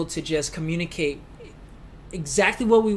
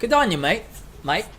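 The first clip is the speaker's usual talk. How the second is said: mock Aussie mate; 3 semitones higher than usual. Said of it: "do they say mate in U K".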